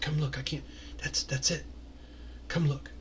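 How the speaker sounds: quietly urging others over; hushed whispers. Acted. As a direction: half-whisper it to those beside you. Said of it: "as you hear whispers like".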